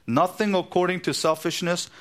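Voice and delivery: "Nothing" hit high at the start; emphatic reading. Shown as a demonstration. Preacher reading the Greek literally to his church, stress on nothing. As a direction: punch "Nothing according to selfishness" as a literal reading. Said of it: "literal rendering of the Greek".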